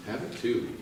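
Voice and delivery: "Have it too" said softly, dropping away; quiet echo of "Have it too"; soft repeat. Shown as a demonstration. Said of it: "But have it too".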